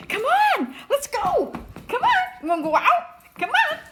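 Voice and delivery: high-pitched, eager pet-talk; squeaky, sing-out coaxing; coaxing a dog. Real, not acted. Owner coaxing Charlie to go out, high and eager.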